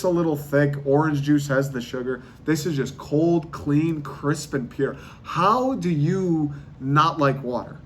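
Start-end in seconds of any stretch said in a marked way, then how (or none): 5.2-7.8 slow, drawn-out disbelief; slow, baffled disbelief; slow incredulous. Real, not acted. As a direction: stretch it out, baffled. Stand-up rant about water.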